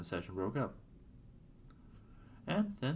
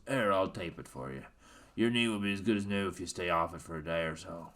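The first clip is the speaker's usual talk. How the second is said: put-on Miles O'Brien Irish accent. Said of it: "doing my Miles O'Brien voice".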